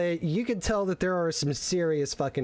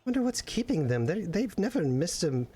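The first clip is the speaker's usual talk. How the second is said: worried Maximilian; 3 semitones higher than usual. Acted.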